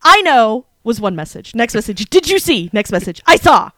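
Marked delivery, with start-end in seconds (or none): 0.0-0.7 punchy mock text-message yell; all caps. Fan quoting her reply message, mildly shouted all caps. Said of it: "all caps again". 2.1-2.7 higher, excited text read-out; all caps. Retold or imitated. Fan quoting her next text, all-caps excitement. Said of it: "all caps again". 3.3-3.7 higher, louder, emphatic burst; all caps. Retold or imitated. Fan quoting her last message, all-caps yell. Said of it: "all caps again".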